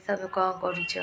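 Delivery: the question said the Odia way; a quick Odia-flavoured sample line; Odia dialect. Shown as a demonstration. Showing viewers her Odia way of asking, Odia accent. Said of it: "যেরকম উড়িয়া ভাষায় বলবে".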